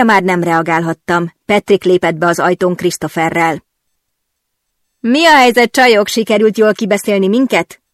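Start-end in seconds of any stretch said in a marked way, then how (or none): 5.0-7.8 teasing, louder laughing question; asking with a laugh. Acted. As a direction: tease the girls through a laugh. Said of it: "kérdezte nevetve". (nevetve kérdezi)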